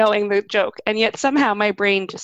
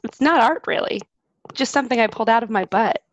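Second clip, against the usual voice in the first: slightly raised, lightly put-on funny voice. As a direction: reread the caption in a mildly silly voice. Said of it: "with my funny voice".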